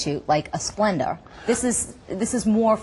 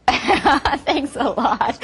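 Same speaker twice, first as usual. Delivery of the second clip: laughing; 5 semitones higher, much slower than usual. Real, not acted. Laughing at child's remark.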